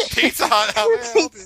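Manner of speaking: high, bright customer service voice; cheerful phone greeting. Pretend. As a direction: answer the phone like a pizza clerk. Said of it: "Who did she think it was gonna be?".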